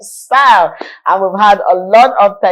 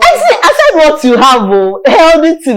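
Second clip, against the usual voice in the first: excited exclaim; 7 semitones higher, 5 dB louder than usual. Real, not acted. Host exclaims over the garri tip.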